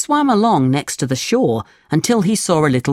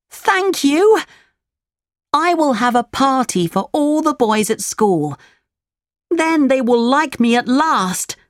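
put-on excited puppet boy; 10 semitones higher than usual. Pinocchio voiced in story.

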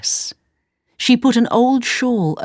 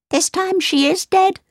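dwarf voice; 12 semitones higher than usual. Acted. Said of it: "said the second dwarf".

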